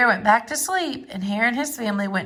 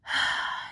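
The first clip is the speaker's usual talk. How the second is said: soft sigh; 8 dB quieter than usual. Acted. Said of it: "sighed Hare".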